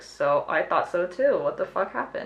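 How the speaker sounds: normal talking voice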